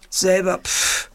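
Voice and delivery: a hint of a cheeky monkey aping back; lightly voiced monkey, mimicking scornfully; mocking monkey. Monkey mocks the bear, lightly mimicking. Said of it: "äffte der Affe nach".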